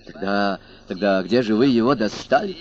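stammering. Acted. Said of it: "заикаясь, пробормотал толстяк".

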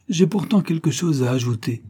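high-pitched quick comeback; defiant retort. A narrator's reading. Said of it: "riposta-t-elle".

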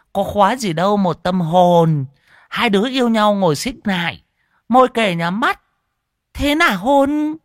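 high, loud, teasing woman reciting a poem; playful poem recital. Acted. Hòa reciting her kiss poem to the group, high and teasing. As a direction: recite it like a cheeky flirt.

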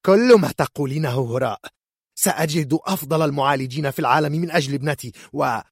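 high, loud, fast angry mother; furious mother vowing to find better healers; angry retort. Acted. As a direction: storm over her words. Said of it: "ردت كورديليا بغضب".

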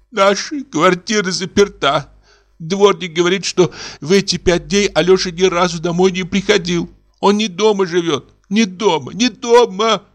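rising panic, each «не дома» climbing; distraught daughter. A narrator's reading. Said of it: "громко заплакала". (в отчаянии, на грани истерики)

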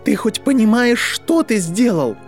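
high, loud furious demand; choking with rage. A narrator's reading. Draco rounds on Harry, choking with rage. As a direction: demand it in outrage, stretching the end. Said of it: "Драко задохнулся от ярости".

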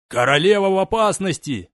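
high alarmed cry; alarmed exclamation. Acted. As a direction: raise the alarm. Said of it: "воскликнул он".

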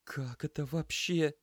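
high, slow stunned question; lost, asking nobody; mumbled disbelief. Acted. Lena at the sink, high and slow in disbelief.

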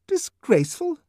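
"Disgraceful?" high and loud, rising in disbelief; incredulous echo. A narrator's reading. Nurse repeating the savage's word, high indignant rise. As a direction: throw his word back at him.

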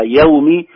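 "يوم" as "yawmi" with an open a; soft waw. Shown as a demonstration. Teacher defining the correct sound, diphthong "yaw" in "يوم". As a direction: open the ي, then glide to w in "يوم". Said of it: "واو عليها سكون قبلها فتحة".

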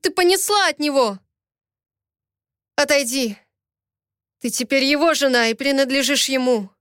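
lover lashing out in anger; angry quarrel. Acted. Quarrel, Ramil shouting at her. (гневная ссора, выше)

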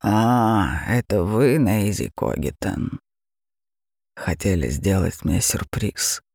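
low, slow menacing dragon voice; a mocking beast purring at its prey; terrifying dragon. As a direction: dragon mocking the girl who tried to trick it, low and slow. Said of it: "проревел страшный до смерти голос дракона".

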